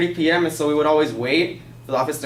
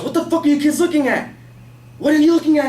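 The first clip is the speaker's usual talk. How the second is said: high, louder imitation of an irate neighbor; retold angry yell; 11 semitones higher, 5 dB louder than usual. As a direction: yell at nosy kids, imitating him. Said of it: "he just yells".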